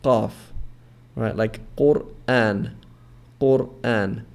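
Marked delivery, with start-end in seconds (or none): 1.4-4.2 Qur'an slow, q from far back in the throat; Arabic qaf. Shown as a demonstration. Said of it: "and we get qaf".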